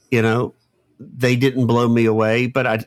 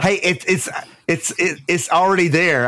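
put-on Southern accent; 7 semitones higher than usual. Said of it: "give us your Andy Griffith accent".

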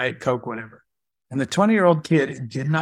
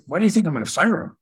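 retold puzzlement; 5 semitones higher, faster than usual. Boss puzzled by staff's assumption.

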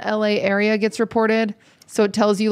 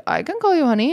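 raised mock boyfriend voice; imitating boyfriend; 6 semitones higher, faster than usual. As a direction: play him higher, cocky. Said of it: "And Led's like".

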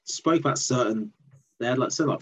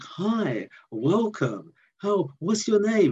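mock overly cheery welcome, pitched up high; chirpy fake greeter; 9 semitones higher, slower than usual. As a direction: imitate grinning staff who are far too happy. Overly cheerful cult staff greeting.

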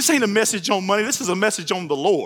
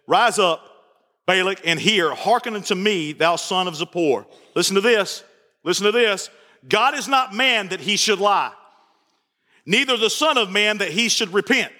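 scripture reading; 3 semitones lower than usual. Acted. Pastor reads scripture to the congregation, measured. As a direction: read the verses with weight.

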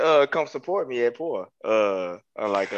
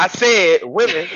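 raised voice, slowly spelled out; louder on request; 5 dB louder, slower than usual. Real, not acted. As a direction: repeat it slowly and loud enough to hear. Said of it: "Say that a little bit louder".

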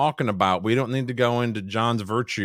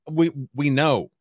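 ordinary delivery

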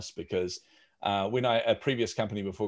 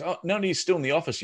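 receptionist voice; 7 semitones higher than usual. Retold or imitated. Receptionist voiced in a retold call.

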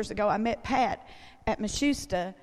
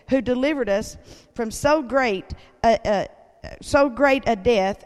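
scripture reading; 2 semitones higher, 4 dB louder than usual. Acted. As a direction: read the verses aloud like a preacher. Reads scripture aloud.

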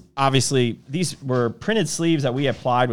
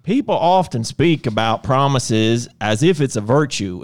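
Southern twang read. Shown as a demonstration. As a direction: read it like a proud country boy. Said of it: "You gotta read it with twang".

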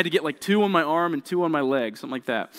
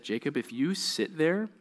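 coaxing mom; 7 dB quieter than usual. Retold or imitated. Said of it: "really good mom move".

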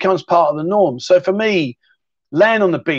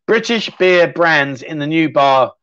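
slow, deliberate tongue twister attempt; slow careful read; slower than usual. Shown as a demonstration. Viewer's tongue twister read out slowly and carefully. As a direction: take it word by word, slowly. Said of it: "That's a tongue twister".

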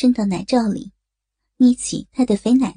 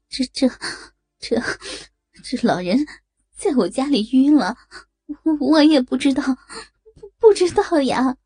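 惊恐; 3 semitones higher than usual. Acted. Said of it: "张凯丽惊恐地说".

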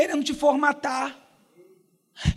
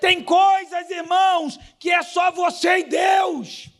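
high, urgent preaching voice; fervent exhortation to the congregation; full-force preaching; 4 semitones higher than usual. Real, not acted.

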